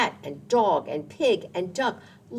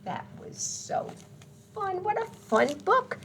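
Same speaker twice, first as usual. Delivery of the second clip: delighted. Real, not acted. Praising the book.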